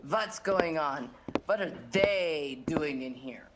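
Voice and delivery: low-pitched, displeased boss; stern accented boss. Acted. Boss finding men in the shop, low stern demand. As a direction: confront intruders in a low accented voice.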